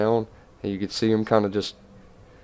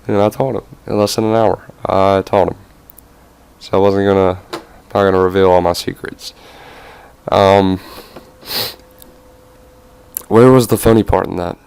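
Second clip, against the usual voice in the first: giggly; 10 dB louder than usual. Real, not acted.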